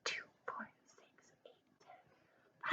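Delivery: whispered skip count. Shown as a demonstration. Teacher whispering the count to children. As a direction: whisper the numbers to yourself. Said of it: "counting demo".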